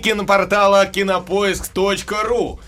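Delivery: loud, upbeat radio host intro; radio host greeting. Acted. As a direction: belt out the morning greeting. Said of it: "Надо правильно войти в эфир".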